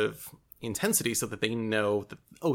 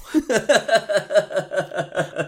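high embarrassed giggle; 10 semitones higher, 5 dB louder than usual. Real, not acted. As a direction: breaks into laughter. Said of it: "laughs at own voice".

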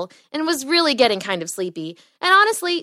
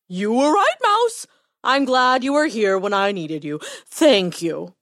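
a touch of heartfelt thanks; grateful lion. A narrator's reading. Lion thanking his small friend, mildly grateful.

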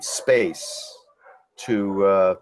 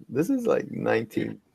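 put-on Jewish accent; 10 semitones higher, slower than usual. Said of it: "With a big Jewish accent".

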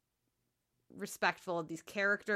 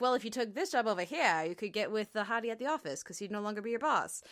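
lightly voiced 1940s radio announcer; a hint of old newsreel narrator, quick; old-timey newscaster voice; faster than usual. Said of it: "I don't know what that old-timey voice is for".

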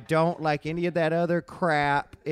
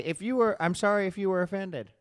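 fake apology; 3 dB quieter than usual. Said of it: "here's what I'll say".

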